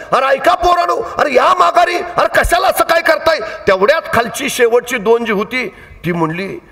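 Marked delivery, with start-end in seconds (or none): 0.1-3.4 high calling yell; old woman yelling. Retold or imitated. Old woman yelling at boys on the mountain, high calling. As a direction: call the boys back, pitched up. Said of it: "म्हातारी कोतारे ओरडायला लागली".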